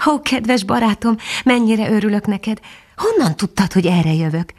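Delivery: high, glad greeting; the dog happily thanking the bat; happy. Acted. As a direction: pour out gratitude to a friend. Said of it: "kérdezte Füstös boldogan".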